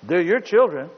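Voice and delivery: loud, rising divine rebuke; voice of God. Acted. God answering the parent, booming rebuke. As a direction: thunder it back at the parent. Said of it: "God said".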